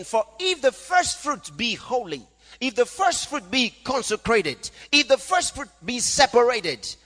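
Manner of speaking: high, emphatic preacher's declamation; scripture reading. Acted. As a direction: drive the verse home phrase by phrase. Reads and expounds scripture aloud.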